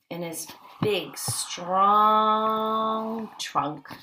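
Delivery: hushed whisper on the trunk. Acted. Teacher hushes the class over the big trunk with a whisper. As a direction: drop to a secret whisper. Dramatic reveal to children.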